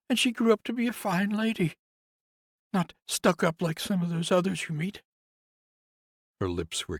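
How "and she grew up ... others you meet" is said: much higher, louder woman's voice, bitter; grieving nurse. Acted. Nurse complains to Conrad about the house, higher voice. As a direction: lift into the nurse's aggrieved voice.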